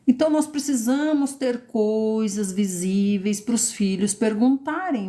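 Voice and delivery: ordinary talk, nothing marked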